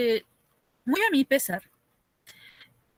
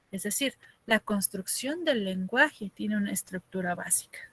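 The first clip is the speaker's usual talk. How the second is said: whisper; 6 dB quieter than usual. Real, not acted. Teacher drops to whisper.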